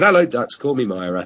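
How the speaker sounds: put-on rough try at a Welsh accent; attempted Welsh accent. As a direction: greet with a half-managed Welsh lilt. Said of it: "I can't do the Welsh accent".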